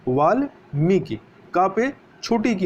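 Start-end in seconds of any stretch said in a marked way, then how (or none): 0.1-1.2 वाल्मीकि spoken slowly with a short final 'ki'; careful model word. Shown as a demonstration. Teacher models the correct वाल्मीकि slowly. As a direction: draw out वाल्मीकि syllable by syllable. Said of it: "इसका शुद्ध क्या है?".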